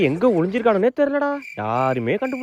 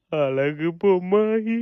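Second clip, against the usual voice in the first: ghostly voice; 3 semitones lower, much slower than usual. Acted. Spooky voice on the phone.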